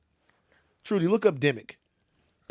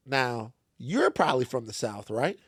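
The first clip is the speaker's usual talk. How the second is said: lower, lightly imitated Southern lady; a hint of Southern accent, pitched down; 4 semitones lower, 3 dB quieter than usual. Lady guessing where he is from, imitated Southern accent. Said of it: "They have very thick Southern accents".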